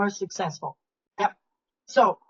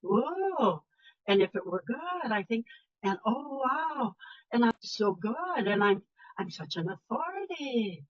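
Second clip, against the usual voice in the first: mocking uptalk; 5 dB quieter than usual. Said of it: "the inclining inflection".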